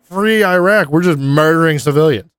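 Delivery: a grunt who can't believe it; high disbelieving rant; shocked soldier. Retold or imitated.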